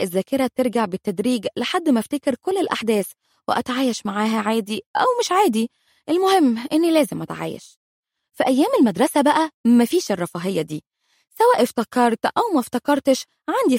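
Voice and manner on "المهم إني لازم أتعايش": ordinary delivery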